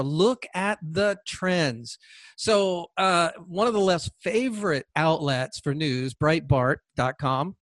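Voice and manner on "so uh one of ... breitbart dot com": sarcastic. Acted. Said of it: "I said that sarcastically".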